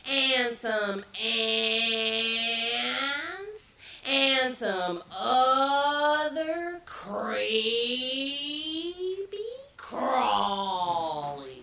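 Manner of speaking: very slow, drawn-out creature voice; creepy armadillo. Acted. Armadillo slowly lists creepy ingredients, dragged out. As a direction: stretch every word slowly, like something crawling. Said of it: "the armadillo came up to that pot".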